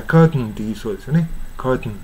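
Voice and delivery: "カーテン" as English curt-n; reduced second syllable on "カーテン"; everyday swallowed t. Shown as a demonstration. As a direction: stop the t into a nasal n in "カーテン". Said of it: "普通の朗読だったら".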